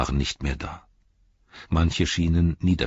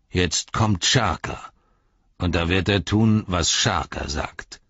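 threatening ruffian; 5 semitones higher, 3 dB louder than usual. Acted. Ruffian threatening the hobbits, rising bullying voice. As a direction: lay down the law to the little ones.

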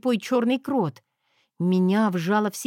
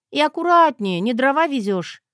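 louder, higher snap at the driver; sharp rebuke; 5 semitones higher, 5 dB louder than usual. Acted. Wife snaps at husband driving, sharp rebuke. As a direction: tell him off for rough driving.

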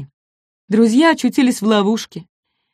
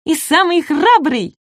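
high, drawn-out little voice; small dinosaur cheering his friend; eager praise; 10 semitones higher than usual. A narrator's reading. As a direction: chime in high and admiring. Shishka eagerly adds praise.

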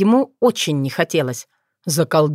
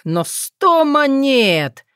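lamenting groan; 7 semitones higher, much slower than usual. Acted. Tsar groans at price.

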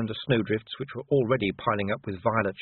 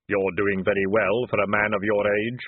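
hollow, louder solemn voice; Death; 4 dB louder than usual. Acted. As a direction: speak as calm, grave Death. Death speaks.

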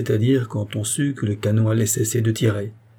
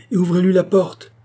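high, louder imperious order; crying out; 8 semitones higher, 5 dB louder than usual. A narrator's reading. Queen tells the valet to open the door, crying out. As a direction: call the command out firmly. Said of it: "cria la reine".

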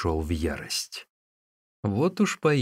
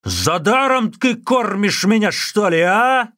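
loud, much higher furious demand; monk still raging at the innkeeper; 13 semitones higher, 8 dB louder, slower than usual. Acted. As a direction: bark the challenge, end on a sharp а. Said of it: "бушевал Усун".

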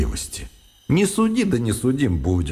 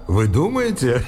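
a question with a laugh in it; nervous laughter in a buried cellar. Real, not acted. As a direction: laugh through the words. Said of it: "перестаньте же вы смеяться".

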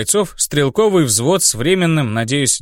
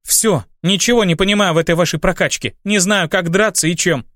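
put-on higher, hesitant young woman; timid girl voice; 5 semitones higher than usual. Olga complaining.

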